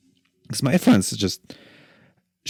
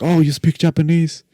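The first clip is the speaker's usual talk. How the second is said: high surprised guard, pitch jumping up; mock surprise at the tourist; surprised question; 8 semitones higher than usual. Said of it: "and he's like".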